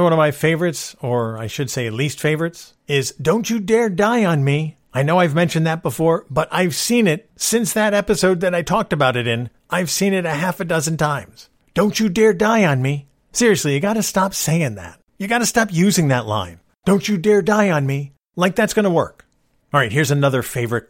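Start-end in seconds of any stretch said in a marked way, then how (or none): 3.1-4.8 higher, drawn-out mock plea; lightly hammed-up desperate hero; slowly plead, as a parody; mock movie melodrama. Quoting a dramatic movie cliche. 11.7-13.1 higher-pitched parody of a desperate hero; lightly hammed-up plea; mock movie melodrama. Quoting a dramatic movie cliche. 16.8-18.1 higher-pitched parody of a desperate hero; lightly hammed-up plea; mock movie melodrama. Quoting a dramatic movie cliche.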